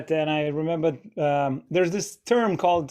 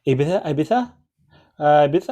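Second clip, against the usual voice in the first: baffled questioning of the pronunciation; mock confusion; 3 dB louder than usual. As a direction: act puzzled, Ibiza? rising each time. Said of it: "just talk like a normal person".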